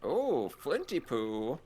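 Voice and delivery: slow, lightly hammed stage magician; theatrical magician. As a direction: drawl it like a showy conjurer. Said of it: "That was my magician impression".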